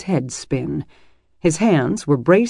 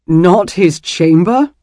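choked laugh; 3 semitones higher, 7 dB louder, slower than usual. A narrator's reading. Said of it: "Dylan choked".

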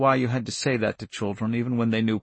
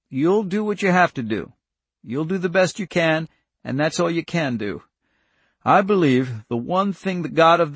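higher, emphatic farmer's counsel; earnest countryman; 5 semitones higher, 4 dB louder than usual. Acted. Irv counsels young Charlie, earnest. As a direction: urge the child kindly but firmly.

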